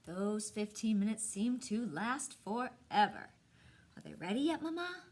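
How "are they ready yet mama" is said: put-on pleading child, Mama pitched higher; eager boy. Buddy begging Mama about the tea cakes, eager whine. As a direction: whine it like an impatient little boy.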